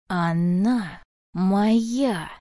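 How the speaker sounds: slow, drawn-out mock hiss; mild hiss. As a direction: claim her with menace, very slowly. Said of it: "прошипела старуха". (лёгкое шипение, очень медленно)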